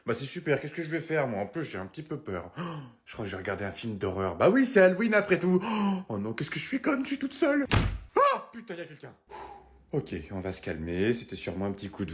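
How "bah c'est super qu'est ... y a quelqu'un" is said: a mother home alone, jumpy and loud. Acted. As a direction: play the nervous mom talking to herself. Sketch, mère seule à Halloween. (mère seule qui s'affole)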